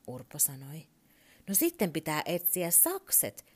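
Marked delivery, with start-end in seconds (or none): 1.5-3.4 energetic. Acted. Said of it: "Turpo sanoi tarmokkaasti".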